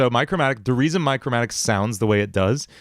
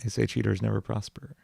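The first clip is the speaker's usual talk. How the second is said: quiet; 7 dB quieter than usual. Acted. Line tried softly.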